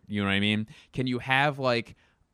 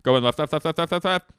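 raised voice, hurried echo; frantic movie impression; 6 semitones higher, 5 dB louder than usual. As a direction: stutter the order back in mock panic. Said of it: "here's my impression of".

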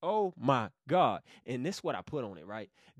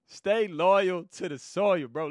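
laughing; 5 dB louder, slower than usual. Real, not acted.

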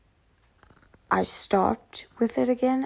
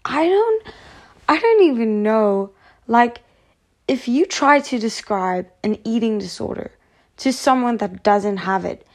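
frustrated; 5 dB louder than usual. Real, not acted. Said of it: "I sound so mad".

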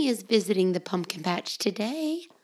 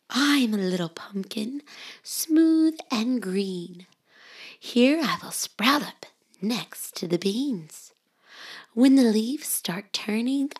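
whispered story reading; 2 semitones higher than usual. Acted. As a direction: hush it like a bedtime book.

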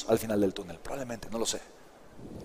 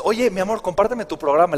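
higher, sweet-talking relative asking a favour; wheedling uncle; 5 semitones higher, 4 dB louder than usual. Retold or imitated. Uncle asking his nephew for the program for free, wheedling. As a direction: coax it out like a charming uncle. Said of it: "Y me dice".

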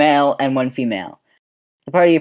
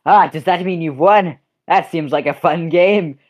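lightly voiced curious woman; a hint of a naive girl; NPC line; 2 semitones higher than usual. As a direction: ask it brightly, a touch innocent. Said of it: "and she goes".

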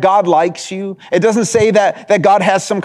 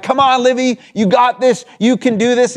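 higher-pitched sideline cheer, mildly retold; cheering daughter on; 5 semitones higher than usual. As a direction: imitate a proud dad cheering at first-grade soccer. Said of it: "I'm just yelling throughout the game".

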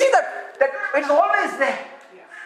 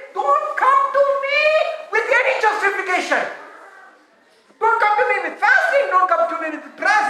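firm rebuke; 6 semitones higher than usual. Acted. Jesus voiced rejecting justification.

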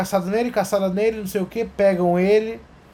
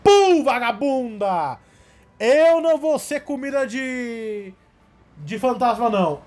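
mock demon kid; 5 semitones higher than usual. Kid attacks mother, acted.

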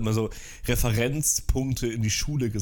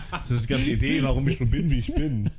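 laughing; 3 semitones higher, 3 dB louder than usual. Real, not acted. Laughs off Grinch question.

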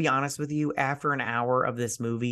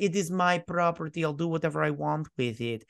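put-on Italian accent sliding into Eastern European; lightly mangled Italian accent; bad Italian accent. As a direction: attempt an Italian accent, badly. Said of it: "how you're Italian accent sounds like".

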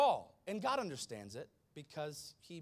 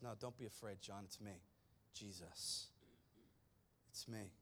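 soft reassurance; 6 semitones lower, 11 dB quieter than usual. Retold or imitated. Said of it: "Jesus says".

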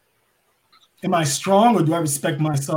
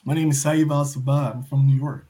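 low, measured introduction; demonstrated cadence; 5 semitones lower than usual. Shown as a demonstration. Wrestler showing cadences he can use, low-pitched introduction. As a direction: drop the pitch for a demo introduction. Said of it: "there's all different cadences and fluctuations".

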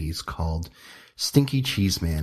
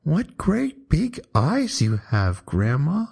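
high, slow awed whisper; whispering little girl; 9 semitones higher, slower than usual. A narrator's reading. Red Riding Hood whispers to the disguised wolf in a high awed voice. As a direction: breathe it wide-eyed as a small girl.

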